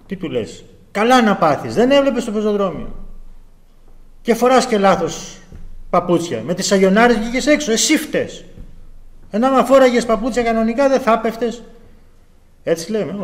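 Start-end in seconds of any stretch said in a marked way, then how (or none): 0.9-11.6 higher-pitched mock telling-off; acted scolding. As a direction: scold someone who has just fallen, as if blaming them. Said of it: "δεν μπορείς να τον επιπλήξεις". (επιτιμητικά, σαν να μαλώνεις)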